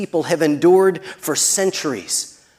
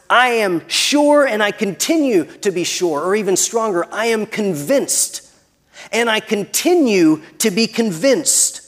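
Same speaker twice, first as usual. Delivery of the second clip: raised, insistent pulpit declaration; emphatic preaching; 5 semitones higher than usual. Real, not acted. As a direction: proclaim it with total conviction, pitched high. Preacher declares Paul's certainty.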